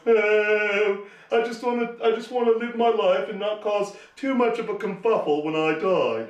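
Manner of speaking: hammed-up English accent, polite and fussy. Mocking how a newborn Englishman sounds, in a mock English accent. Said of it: "every Englishman goes".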